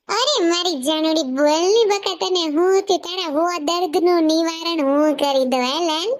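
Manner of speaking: slow, sweet wheedling to his sulking wife; coaxing husband. Acted. Husband coaxing his upset wife, slow and sweet. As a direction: sweeten her up, drawn out.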